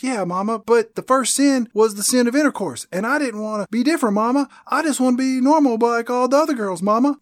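put-on high, plaintive teenage daughter voice; pleading daughter. Daughter pleading with Mama in the film, high mock plea. Voicing pleading Carrie to her mother.

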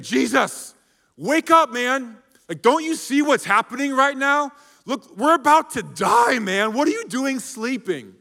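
hammed-up panic in a sinking boat; panicked yelling. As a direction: shake a sleeping friend awake in terror. Disciples panic, waking Jesus.

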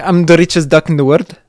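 put-on light Scottish duck accent, barely shifted; a quick Scottish cartoon-duck impression; Scrooge McDuck voice. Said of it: "I can do Scrooge McDuck".

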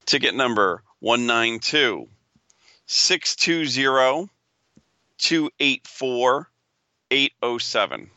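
slow, drawn-out number calling; raffle caller. Acted. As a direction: call each digit like a raffle draw. Reads ticket number slowly.

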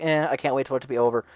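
low, unenthused grumble; quick, listless mutter of an employee; bored at work. Acted. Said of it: "Then I go back to work".

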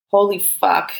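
a mild exclamation, drawn out; yelled. A narrator's reading. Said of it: "Gabrielle yelled".

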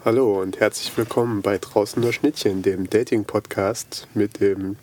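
grinning through a podcast intro; smiling voice. Acted. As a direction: announce it with an audible grin. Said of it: "wenn du die ganze Zeit nur grinst".

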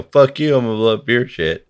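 tossed-off tit-for-tat jab, rushed; mock angry retort. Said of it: "And then they go".

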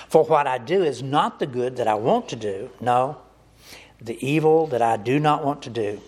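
anguished cry. Acted. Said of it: "he cries out".

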